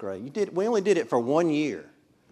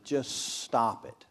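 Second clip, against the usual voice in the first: slow and softer, holding back; slow quiet start; much slower than usual. Shown as a demonstration. Ruth to Naomi, first slow restrained plea. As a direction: ease into it slowly. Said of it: "re-say that at, like this".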